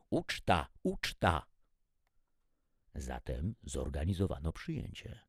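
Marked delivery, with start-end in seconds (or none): 0.1-1.5 gleeful exclamations, slightly raised; joyful cries. A narrator's reading. Alien guests cheering through translators at the word feast, joyfully. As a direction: call it out with joy. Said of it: "radosne okrzyki".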